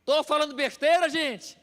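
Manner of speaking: rhetorical call out. Real, not acted. Pregador provoca a congregação.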